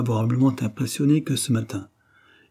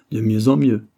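much higher, louder outburst; gleeful roar; 6 semitones higher, 8 dB louder than usual. A narrator's reading. Pollack delights in Drouce's wrong guess, roaring. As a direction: pitch it up high in roaring delight. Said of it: "rugit-il".

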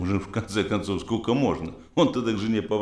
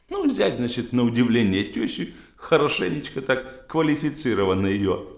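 usual speaking voice

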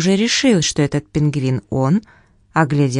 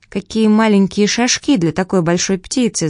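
put-on boy's voice; 4 semitones higher than usual. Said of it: "заметил Билл".

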